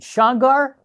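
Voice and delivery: high, loud disbelieving question; astonished recognition. Retold or imitated. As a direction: call out the name in startled recognition. Recognizing a long-lost boot camp mate.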